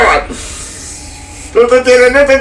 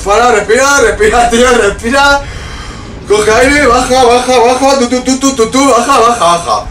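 calming himself; 4 semitones higher than usual. Real, not acted. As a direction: talk yourself down. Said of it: "Tengo que parar un segundito".

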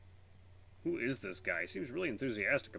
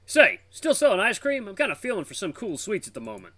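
friendly tiger; 10 semitones higher, 10 dB louder than usual. Acted.

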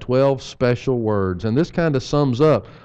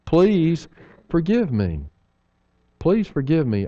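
sincere plea; 3 semitones higher than usual. Shown as a demonstration. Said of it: "this is so beautiful".

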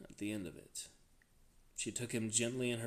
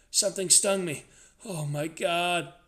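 loud, high, panicked cry; frantic, frightened wail; rising terror; 7 semitones higher, 9 dB louder than usual. A narrator's reading. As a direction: blurt it out in terror, stretching the exclamation. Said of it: "His voice ran up into whimpering terror".

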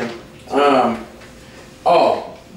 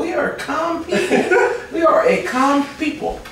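laughing; 10 semitones higher than usual. Acted.

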